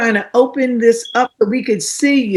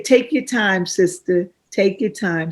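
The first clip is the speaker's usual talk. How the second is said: church encouragement; 3 semitones lower, 4 dB quieter than usual. Retold or imitated. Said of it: "what they'd say".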